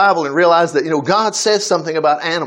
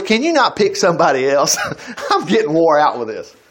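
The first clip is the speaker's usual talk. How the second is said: laughing mock complaint; 2 semitones lower than usual. Jokes as weary Jeremiah, laughing.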